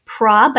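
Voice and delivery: "Prob" broken off, short O clearly sounded; sounded-out syllable. Shown as a demonstration. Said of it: "I hear the short O".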